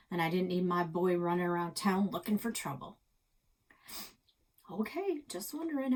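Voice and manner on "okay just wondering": put-on kid voice. Alex voiced, kid asking innocently.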